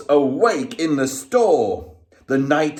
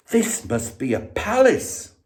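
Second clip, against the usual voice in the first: hushed, amazed, high; awed wonder; 9 semitones higher than usual. A narrator's reading. Bear awed by the furniture, high amazed. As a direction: marvel at the palace. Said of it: "Corduroy gasped".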